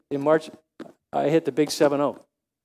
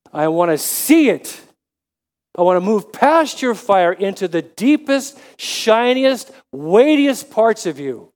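Moses pleading; 4 dB louder than usual. Retold or imitated. Moses pleading with God to show his glory, urgent. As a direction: Show me your glory, said three times with urgent plea. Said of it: "the first thing he says is".

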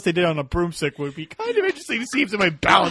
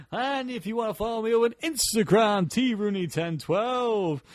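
radio voice; 4 semitones higher than usual. Acted. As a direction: stretch it out like a late-night DJ. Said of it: "Doing my radio voice".

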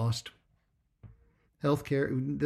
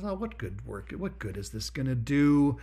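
little voice of doubt. Acted. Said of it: "a little voice pops in and says".

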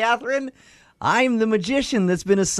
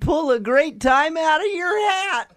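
magician voice; 4 semitones higher than usual. Acted. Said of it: "Please stop using the put-on voice".

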